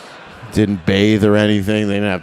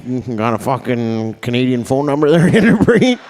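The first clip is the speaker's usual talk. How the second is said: flirty guy; 2 semitones higher than usual. Retold or imitated. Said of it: "You're like".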